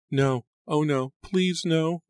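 high, slow anguished moan; a slow wailing denial. A narrator's reading. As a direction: drag the pleas out in anguish. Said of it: "Angelica moaned".

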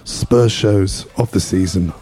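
losing his voice, hoarse and strained; hoarse, worn-out voice. Real, not acted. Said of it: "Lost my voice".

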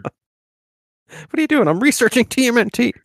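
high, slow, mocking child; squeaky child asking; high kid voice. Voicing a kid and a runner.

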